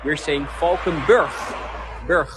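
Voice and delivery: "Berg" ending in a very hard, throaty G; "Valkenburg, Berg" said with a hard Dutch G; hard G pronunciation. Shown as a demonstration. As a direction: stress the harsh western G in "Valkenburg". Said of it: "with a very hard G".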